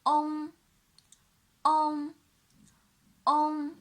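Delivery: "on" drilled as a velar nasal; clear demo syllable. Shown as a demonstration. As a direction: model "on". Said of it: "And the next one".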